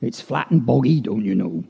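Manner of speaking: rural Fenland English accent. Shown as a demonstration. Poet touring flat, boggy country, Fenland accent. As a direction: recite it like a Fenland local. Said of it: "Then up to Fenland we do go".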